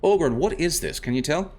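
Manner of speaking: put-on high, lilting Irish accent. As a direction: talk like an Irish adventurer. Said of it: "I was doing an Irish accent for this guy".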